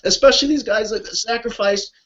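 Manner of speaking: pouring out real feeling for the vets; emotional. Real, not acted. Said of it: "So I'm sorry to get emotional".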